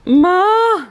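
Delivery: high, loud bleating "Ma!"; imitating a goat kid. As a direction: cry for mama like a baby goat. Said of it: "You hear her calling Ma?".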